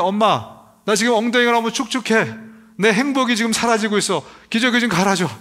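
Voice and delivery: lightly voiced baby whining for mom; whiny baby voice. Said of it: "막 웁니다". (기저귀 갈아 달라고 엄마에게 살짝 칭얼대는 아기 흉내)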